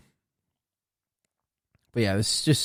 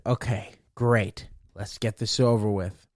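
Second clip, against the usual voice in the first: weary sarcasm; 3 semitones lower, 4 dB quieter than usual. Retold or imitated. Fed-up patient.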